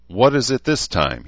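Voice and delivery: he's fed up and lets it show; an impatient snap of a question; exasperated. A narrator's reading. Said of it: "still exasperated".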